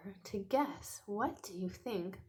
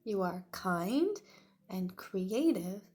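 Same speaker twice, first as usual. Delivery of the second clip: lightly voiced mother; 7 dB louder than usual.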